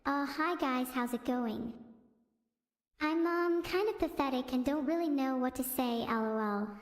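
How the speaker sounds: hesitant, self-deprecating, only lightly voiced; mock a shy streamer who apologises for existing; a hint of a timid streamer; Numi impression. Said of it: "I'll do a really bad impression of Numi first".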